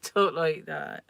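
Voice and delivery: slow mock West Country burr; lightly hammed-up Devon accent; imitated Devon accent. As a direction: put on a drawn-out Devon accent. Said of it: "they've all got, like, accents".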